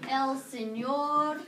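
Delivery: slowly drawn-out el señor; teacher dictating a question slowly; slow dictation. Shown as a demonstration. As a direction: give them time to write. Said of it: "¿Le gusta".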